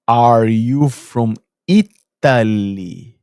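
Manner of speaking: imitating her loud, very drawn-out question; slow, loud questioning. Neighbour guessing the foreigner's country, slow and loud. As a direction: stretch each word out loudly for a foreigner. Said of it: "Aí ela fez assim".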